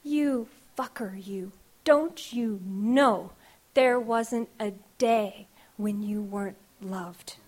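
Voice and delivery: slow, tender, fading into a whisper. Retold or imitated. Grandma telling the child they were always loved, tender and slow. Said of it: "but said tender".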